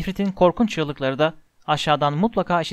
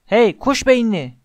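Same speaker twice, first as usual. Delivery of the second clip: loud, higher, slow taunting yell; 5 semitones higher, 5 dB louder, slower than usual. A narrator's reading. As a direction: bellow the insult to draw the troll. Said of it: "diye bağırarak".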